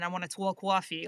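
cartoon New Yorker accent; over-the-top New York accent. Shown as a demonstration. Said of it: "way too over the top".

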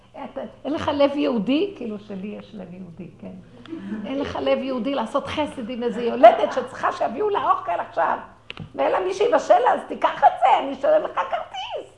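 loud, high scolding broken by laughter; woman imagines yelling at the bus driver, laughing mock rage; mock angry rant. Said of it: "רציתי לכעוס על הנהג".

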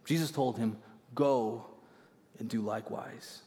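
a lightly voiced measured Bible reading; scripture reading. Pastor reads the Good Samaritan to the congregation, steady reading. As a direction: read the passage steadily, like a lesson. Reads Luke passage aloud.

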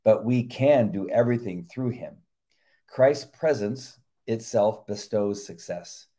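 measured earnest sermon reading; devotional reading. Acted. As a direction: read it like a sermon. Reads devotional aloud.

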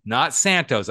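"Santos" with an s on the end; wrong name shown. Shown as a demonstration. Host warning himself off the wrong name, Santos with final s. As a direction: stress the mistaken final s in "Santos". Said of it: "I'm gonna get it right".

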